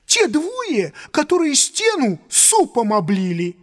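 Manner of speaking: high excited waiter babble; rapid chattering. Acted. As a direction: gabble it out, words tumbling. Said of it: "затараторил он".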